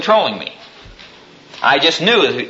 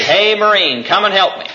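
hollering for help; 6 semitones higher than usual. Retold or imitated. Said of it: "hollered down the street".

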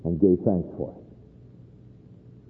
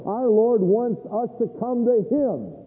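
slow earnest appeal; 8 semitones higher, slower than usual. Real, not acted. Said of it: "preacher slows to stress point".

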